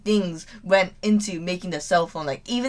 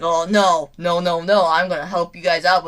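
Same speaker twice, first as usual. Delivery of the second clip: tsundere; 5 dB louder than usual. Acted. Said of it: "doing a tsundere way".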